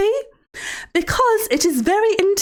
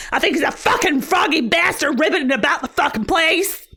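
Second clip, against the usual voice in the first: mock angry shout. Host ranting about a chatter's froggy name, mock angry shout. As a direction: curse the name out like a furious old woman.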